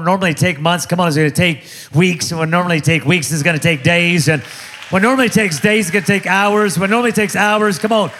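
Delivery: forceful preacher building in steps; rousing preaching. Real, not acted. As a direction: drive the promise home and rally the crowd. Preaches a promise to congregation.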